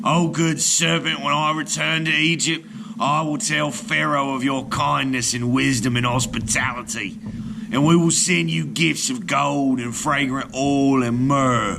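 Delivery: grateful. Acted. Sailor addresses serpent gratefully.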